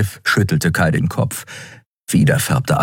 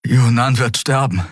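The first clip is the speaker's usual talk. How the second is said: lightly strained, higher gasp; 7 semitones higher than usual. A narrator's reading. Captive pleading for his dying mentor, gasping. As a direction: get it out short of breath. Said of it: "keuchte Kai".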